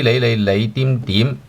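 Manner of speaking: 你 and 點 repeated slowly, tone by tone; slow tone drill; syllable drill. Shown as a demonstration. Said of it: "Fourth tone, second tone".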